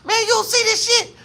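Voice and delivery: high, laughing what the hell; laughing disbelief. Retold or imitated. Telling cousin about the staring crowd, high and laughing. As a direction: laugh it off in shock. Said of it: "I'm like".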